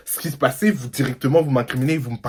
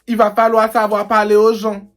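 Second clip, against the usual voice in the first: lightly imitating the Antillean colleague's accent; 6 semitones higher than usual. Imitating the Antillean colleague telling him off, in her Antillean accent. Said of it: "Avec son accent, là".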